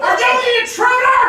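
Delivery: high shout from another room. Pretend. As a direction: yell it through the house. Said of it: "That's why I'm yelling".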